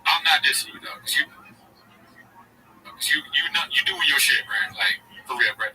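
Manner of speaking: lightly voiced bro giving advice; Schultz impression. Mimicking a podcaster lecturing fans, lightly voiced bro. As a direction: preach code switching like a hustle guru. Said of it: "Schultz is his character".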